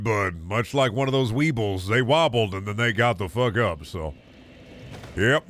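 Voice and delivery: lightly voiced worn-out worker; factory worker. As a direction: complain about the daily grind like a tired laborer. Voices weary factory worker character.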